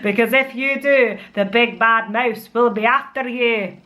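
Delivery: hammed-up, dodgy Scottish reading; bad Scottish accent. Mum reading The Gruffalo's Child, bad Scottish accent. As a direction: read it in a poor Scottish accent. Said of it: "read it in a Scottish accent".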